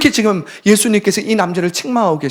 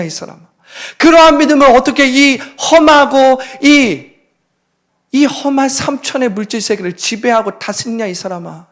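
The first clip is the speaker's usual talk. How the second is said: rebuking Jesus voice; 4 semitones higher than usual. Acted. Jesus rebuking again, acted.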